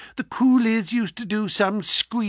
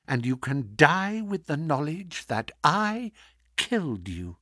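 low sinister menace; 4 semitones lower, 6 dB quieter than usual. Acted.

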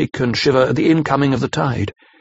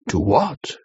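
asking gently; 3 semitones lower, 3 dB quieter than usual. A narrator's reading. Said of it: "he asked gently".

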